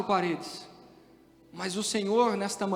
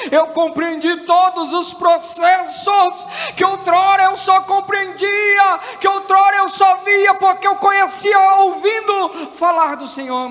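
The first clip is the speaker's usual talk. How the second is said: full-force preaching; 8 semitones higher, 12 dB louder than usual. Real, not acted. Preacher declares understanding before God, full-force preaching. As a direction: belt out each phrase to the congregation.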